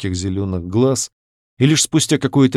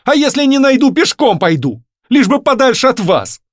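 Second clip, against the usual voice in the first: much higher, loud outburst; young woman blowing up at the man, high and loud; exploding; 14 semitones higher, 6 dB louder than usual. A narrator's reading. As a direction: burst out at him. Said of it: "взорвалась она".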